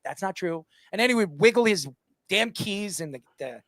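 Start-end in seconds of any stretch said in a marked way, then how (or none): 0.1-0.7 a soft, hushed mock whisper of the father; imitating a whisper. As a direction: whisper it like a father muttering during the show. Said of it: "whispering that".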